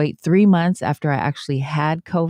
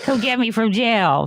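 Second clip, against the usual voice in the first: laughing mock threat; 8 semitones higher than usual. Friend jokes she'd have gone off on the rude man, laughing. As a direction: joke about going off on him, cracking up. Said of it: "I'm like".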